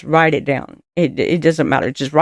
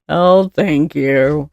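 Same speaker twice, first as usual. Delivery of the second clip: reluctant thanks; much slower than usual. Retold or imitated. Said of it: "you didn't wanna".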